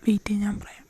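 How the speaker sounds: fast, voiceless, very soft; hurried whisper. Acted. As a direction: whisper quickly so no one hears. Whispering to hiding girl. (വേഗത്തിൽ മന്ത്രിക്കുന്നു)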